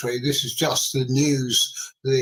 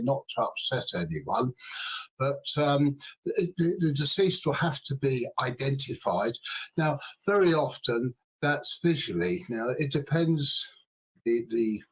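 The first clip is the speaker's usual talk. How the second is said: softer, careful, measured words; careful and gentle; 5 dB quieter than usual. Real, not acted. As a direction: tread gently around grieving family. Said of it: "I'm going to just be very careful with my language here".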